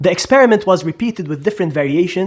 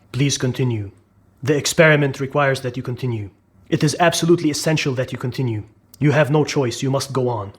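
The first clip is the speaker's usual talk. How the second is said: lower, even authority voice, lightly acted; experimenter's orders; 5 semitones lower than usual. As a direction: lightly voice an impassive experimenter insisting. Voicing the experimenter's calm orders.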